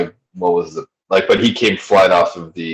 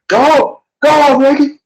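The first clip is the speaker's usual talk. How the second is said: high, drawn-out Southern twang on go home, Yankee; a hammed-up Southern yell at a Northern driver; Southern accent; 4 dB louder, slower than usual. Shown as a demonstration. Mocking a Yankee driver in a put-on Southern accent. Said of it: "not sure if that was really a Southern accent".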